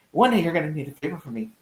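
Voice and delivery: quick, hushed whisper of a veiled threat; menacing whisper. Retold or imitated. Retelling Penguin's veiled threat to Gordon, whispered. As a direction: breathe the warning like a secret.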